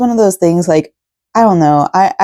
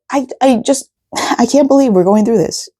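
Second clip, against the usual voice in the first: crying; 5 semitones higher than usual. Real, not acted. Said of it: "I'm gonna keep on crying".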